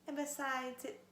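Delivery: slow whimpering whisper. Acted. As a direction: whimper it under your breath. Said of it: "he whimpered".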